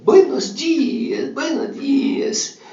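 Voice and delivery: high, slow cheerful greeting; blind old lady. Acted. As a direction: greet the morning sun, delighted.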